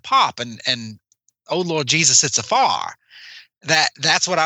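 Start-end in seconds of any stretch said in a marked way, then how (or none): 1.5-2.9 lightly put-on Southern accent, "fire" flattened to "far"; imitated Southern lady. Quoting the lady woken at night, imitated Southern exclamation. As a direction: quote her with a Southern twang. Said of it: "the lady that, that got up".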